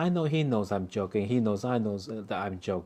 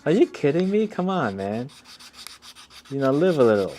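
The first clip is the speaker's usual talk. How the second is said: mock exasperated, higher and louder; 4 semitones higher, 5 dB louder than usual. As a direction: scold someone for no sense of humor. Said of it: "It's like".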